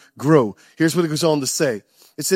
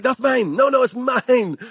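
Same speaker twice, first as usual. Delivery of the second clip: put-on higher, childish tug-of-war voice; mock squabbling shopper; 5 semitones higher, slower than usual. Shopper squabbling over a sale item, high whiny grab. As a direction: grab it and whine it's mine.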